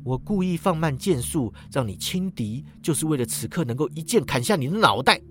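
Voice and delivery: quiet, cold explanation; 冷冷地说. Acted. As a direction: tell the severed head flatly. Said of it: "冷冷说道".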